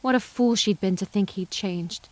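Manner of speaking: ordinary delivery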